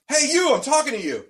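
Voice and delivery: high-pitched mock challenge; hammed-up stranger demanding attention; imitated calling out. Imitates man calling from behind.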